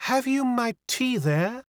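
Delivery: put-on high, slow French-accented girl; French young lady, pitched well up; mincing French accent. A narrator's reading. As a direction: ask daintily with a French accent. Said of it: "with a touch of the mincing French accent".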